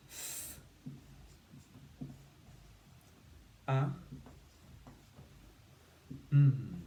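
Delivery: segmented th, a, m with long pauses; sounding out. Shown as a demonstration. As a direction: break «thumb» into its sounds. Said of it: "we've got".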